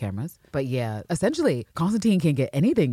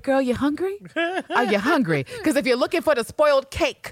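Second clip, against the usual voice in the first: higher, incredulous offer of help; mock concern; 7 semitones higher than usual. Recapper voicing Bear to Eve in the trash, high mock concern. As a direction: ask it high-pitched, drawing out the question.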